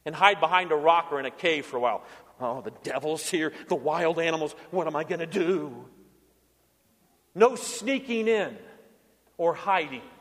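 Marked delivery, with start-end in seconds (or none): 2.4-5.9 mock cowering. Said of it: "he doesn't sneak in and hide".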